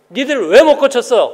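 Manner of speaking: a mildly annoyed teacher scolding; irritated scolding. Retold or imitated. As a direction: snap at the disciples a little. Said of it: "약간 화가 나가지고".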